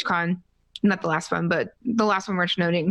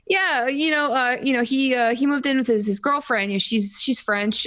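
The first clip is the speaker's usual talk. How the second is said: higher-pitched, halting overexplaining that settles down; nervous rambling; 5 semitones higher than usual. Retold or imitated. Fan keeps explaining brother's move to streamer, mildly nervous. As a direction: retell your own awkward, jittery oversharing. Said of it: "I talk a lot when I'm nervous".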